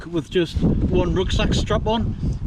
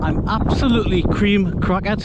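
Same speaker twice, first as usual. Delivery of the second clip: raised voice over the wind; shouting over wind; 5 semitones higher, 4 dB louder than usual. Real, not acted. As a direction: project over a gusty wind. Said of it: "if you can hear me over the wind".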